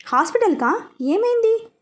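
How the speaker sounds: startled by the news; alarmed. A narrator's reading. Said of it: "అని అడిగాడు కంగారుగా". (కంగారుగా అడుగుతూ)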